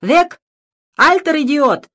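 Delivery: high, loud barked German; loud shout. A narrator's reading. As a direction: scream it at him like a soldier. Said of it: "громко крикнул". (громкий лающий крик)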